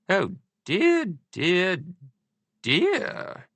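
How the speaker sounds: high fretting royal voice; fretting Queen. A narrator's reading. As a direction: fuss like a worried queen.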